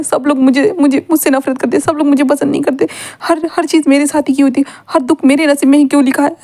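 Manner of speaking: a hint of tearful shouting; understated crying outburst. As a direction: complain through mock tears. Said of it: "ऐसे विंग ज़ोर-ज़ोर से चिल्लाते हुए रो रहा था".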